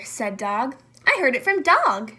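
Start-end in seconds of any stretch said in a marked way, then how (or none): 1.1-2.1 squealing. Acted. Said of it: "squealed Nightingale".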